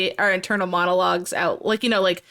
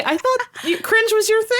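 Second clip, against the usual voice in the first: imitating Sarah; 10 semitones higher than usual. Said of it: "Sarah says to me".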